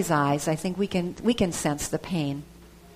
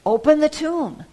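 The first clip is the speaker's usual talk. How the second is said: high, loud command to the crowd; commanding call; 7 semitones higher, 4 dB louder than usual. Retold or imitated. Jesus ordering the mourners to open the tomb, commanding. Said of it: "He said".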